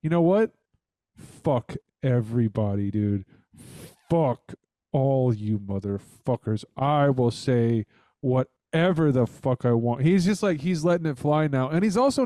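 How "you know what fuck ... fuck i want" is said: mock unleashed ranter. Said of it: "He has now decided, like".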